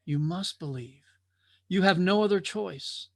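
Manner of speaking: solemn plea. Acted. Watcher's final solemn answer.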